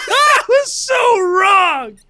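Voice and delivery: high, slow, laughing exclamation; cracking up through the words. Real, not acted. Laughing hard after dark joke.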